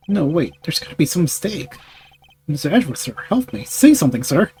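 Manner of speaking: lightly voiced flustered detective, pitch jumping; a touch of panicked subordinate; pleading detective. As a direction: plead with your superior for help.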